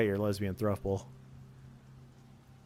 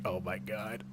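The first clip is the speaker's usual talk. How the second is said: flustered denial; 6 semitones higher, 5 dB louder than usual. Retold or imitated. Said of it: "I'm gonna be like".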